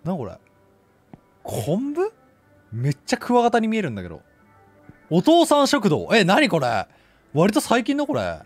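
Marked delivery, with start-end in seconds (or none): 5.1-6.1 hit hard crying out. Real, not acted. Shouting a shop sign.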